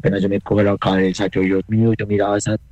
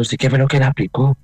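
mildly raised, accusing question; sharper, more insistent retold demand; retold shouted demand; 3 semitones higher than usual. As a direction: imitate a nurse shouting a question, half-strength. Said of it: "Pero así gritando".

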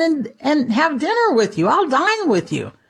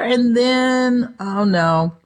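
ordinary delivery

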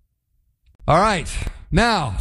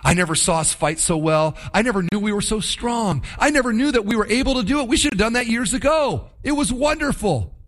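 excited bragging; 4 semitones higher than usual. Retold or imitated. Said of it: "gone home to their wives and said".

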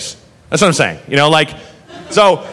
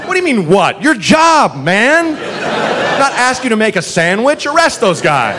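raised, exasperated retort; indignant retort; 5 semitones higher than usual. Retold or imitated. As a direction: tell him off in disbelief.

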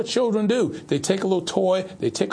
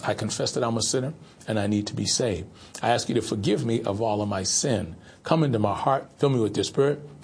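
led prayer; 5 semitones lower than usual. Real, not acted. Leads the sinner's prayer.

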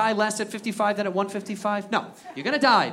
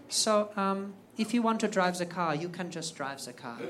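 timid pipe-up; 9 dB quieter than usual. Retold or imitated. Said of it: "he pipes up".

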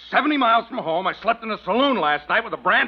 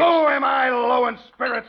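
indignant shout; 2 semitones higher than usual. Acted. Shouting back at the hand.

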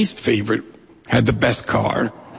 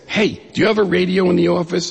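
excited friend's phone call, high and hurried; lightly acted breathless excitement, pitched up; hyperventilating friend; 6 semitones higher, faster than usual. Friend phoning the office with big news, mock excited. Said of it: "he's all hyperventilating".

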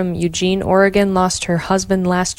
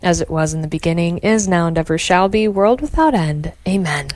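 quick devout response; prayer recitation. Acted. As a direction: rattle off the prayer. Responds to the Glory Be.

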